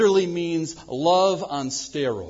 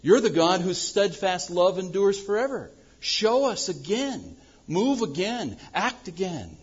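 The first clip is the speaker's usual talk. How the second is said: crying out to God; 6 semitones higher than usual. Retold or imitated. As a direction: implore God to act now. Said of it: "Habakkuk is crying out".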